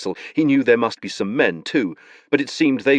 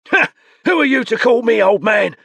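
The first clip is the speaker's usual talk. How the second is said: put-on indignant old man; 6 dB louder than usual.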